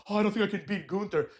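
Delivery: mock insecure whine; Jey Uso. Wrestler doubting he can beat Gunther, mock insecure. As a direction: imitate his self-doubt. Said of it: "insecure Jey Uso run".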